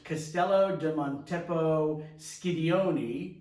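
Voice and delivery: Castello di Montepo Schidioni, slow, in an Italian accent. Shown as a demonstration. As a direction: savor the Italian name slowly. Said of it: "he said that pretty good with an Italian accent".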